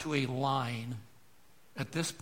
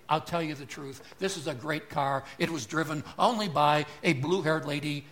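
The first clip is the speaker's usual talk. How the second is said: lightly voiced, slightly louder smooth sales pitch; a hint of a car dealer selling you a lemon; used car salesman; 2 semitones higher, 5 dB louder than usual. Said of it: "Used car salesman will tell you".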